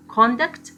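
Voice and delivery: CONDUCT twice, first CON-duct, then con-DUCT; noun-verb stress contrast on "conduct"; contrasted syllable stress. Shown as a demonstration. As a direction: shift the weight from CON to DUCT on the repeat. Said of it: "second syllable is more prominent than the first".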